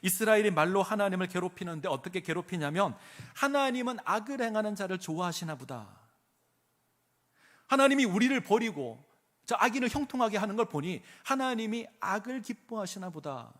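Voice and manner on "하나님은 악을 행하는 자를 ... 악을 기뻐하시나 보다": raised, aggrieved mock grumble; mild whining protest to God; grumbling complaint. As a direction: voice the people's bitter grievance. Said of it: "이렇게 불평하는 겁니다".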